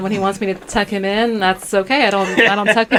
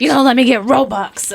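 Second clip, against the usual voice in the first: put-on whiny kid; 5 semitones higher than usual. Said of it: "He was just like".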